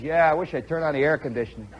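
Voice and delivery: low, quick, offhand reply; imitating a nonchalant ballplayer; playing it cool. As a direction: toss it off, unimpressed. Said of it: "he's playing it real cool".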